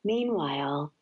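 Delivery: measured, unhurried poetry reading; poem reading. Acted. Guest reading a Mary Oliver poem on air, calm recital. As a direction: let each line settle before the next.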